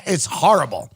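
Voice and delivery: ordinary delivery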